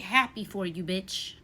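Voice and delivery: sarcastic congrats. Shown as a demonstration. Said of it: "Clock it".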